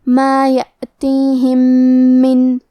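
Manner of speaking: یأتیہم من slow, the two میم joined into one doubled میم with a nasal hum; idgham of meem. Shown as a demonstration. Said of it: "غنہ اور تشدید کے ساتھ پڑھیں گے". (میم کا ادغام غنہ اور تشدید کے ساتھ)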